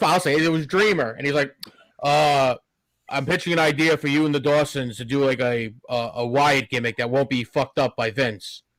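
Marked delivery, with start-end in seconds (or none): 2.0-8.6 dull, slow, drawn-out, boring drone. Retelling a late-night phone call pitching an idea: imitating Dreamer's slow boring voice. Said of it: "someone that talks very slow and boring".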